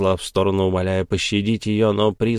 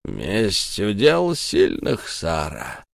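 stern ghost; much slower than usual. Acted. Ghost Tom sternly threatens the witch Sara. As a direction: pronounce it like a verdict. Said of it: "строго сказал призрак".

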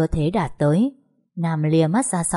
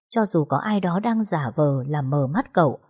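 usual speaking voice

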